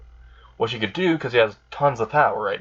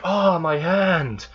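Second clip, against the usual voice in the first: mock pained cry; 6 semitones higher, much slower than usual. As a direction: play-act crying out in pain. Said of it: "screaming in pain".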